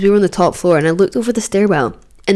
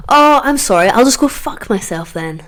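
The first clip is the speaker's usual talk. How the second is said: sarcastic retort; 4 semitones higher than usual. Retold or imitated. Sarcastic comeback to the police.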